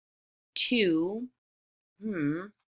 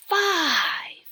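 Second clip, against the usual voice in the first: excited cheer; 9 semitones higher, 9 dB louder than usual. Real, not acted. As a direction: call the number out brightly and high. Teacher cheers the next number.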